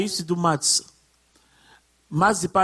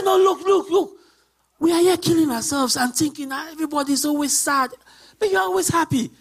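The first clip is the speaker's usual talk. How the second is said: higher, lively voice of a puzzled friend; amazed colleague; 5 semitones higher, faster than usual. Retold or imitated. Friend asks why she is always happy, amazed. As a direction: play the friend marvelling at her.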